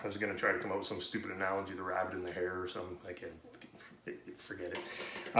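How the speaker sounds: quiet. Real, not acted. Muttered aside to himself.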